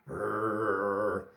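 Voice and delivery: low playful "rrr" growl; monster growl. Pretend. Showing kids a favorite monster, playful growl.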